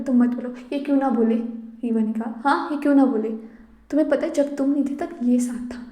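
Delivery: angry mother shouting at the father; loud argument. Acted. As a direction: shout back in his defence. Heated quarrel between Reeva and JK.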